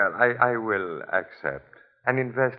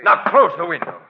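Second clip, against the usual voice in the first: commanding; 5 semitones higher, 8 dB louder, faster than usual. Acted. Gunpoint order.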